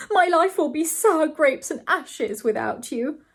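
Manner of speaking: slow, high-pitched lament; agonized cry. A narrator's reading. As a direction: melodramatic despair, drawn out. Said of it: "cried Mister Saltiner".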